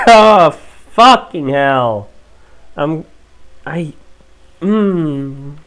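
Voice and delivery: loud pained groan, slow. Real, not acted. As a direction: swear through the pain after coughing. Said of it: "It hurts".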